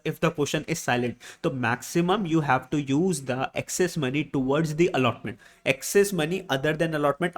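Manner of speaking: spelling out the rule slowly for notes; slow, deliberate note dictation. Shown as a demonstration. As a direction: dictate it so students can write.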